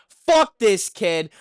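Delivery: retold yell. Yelling at the kid soaking the neighbor's van, fed up. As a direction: snap it at him like you're done with him. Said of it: "I kinda yell at him".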